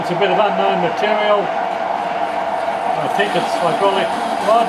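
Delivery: talking over a running lathe; machine noise behind. Real, not acted. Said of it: "Sorry about the machine noise again".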